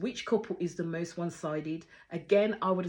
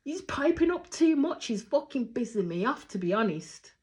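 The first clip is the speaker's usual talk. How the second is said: mimicked annoyance; 6 semitones higher than usual. Acts out annoyed contestant's complaint.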